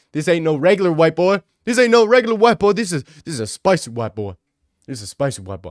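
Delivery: loud, hammed-up imitation of a woman; exaggerated impressed girl, big and loud; deep-ass voice. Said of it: "she got a fucking deep-ass voice".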